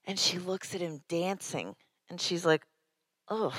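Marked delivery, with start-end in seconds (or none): 3.3-3.5 disgusted ugh. Retold or imitated. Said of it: "She's disgusted".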